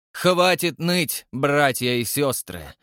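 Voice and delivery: slow, mocking sneer; sarcastic. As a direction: sneer at their whining. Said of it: "язвительно добавил он".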